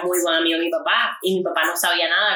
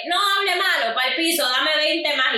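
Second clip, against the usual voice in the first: high mock sergeant; 7 semitones higher than usual.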